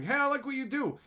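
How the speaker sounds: a fan saying hi; imitating a fan. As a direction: chirp it like an eager fan.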